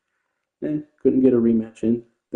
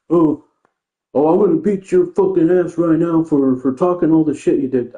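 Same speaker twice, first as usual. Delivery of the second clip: higher, hammed-up redneck voice, pushing a threat; mock redneck; 5 semitones higher than usual. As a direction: imitate a dumb hick trash-talker. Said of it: "a sped redneck".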